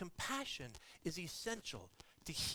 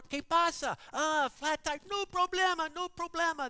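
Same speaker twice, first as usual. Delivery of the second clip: lightly voiced day laborer, higher and louder; breezy, friendly reassurance; cheerful helper; 9 semitones higher, 6 dB louder than usual. Day laborers offer help at the roadside, lightly voiced.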